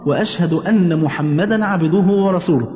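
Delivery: slow, measured recitation of the testimony; prayer recitation. Shown as a demonstration. Son teaching his mother the prayer, slow recitation. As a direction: recite it slowly for a learner to follow.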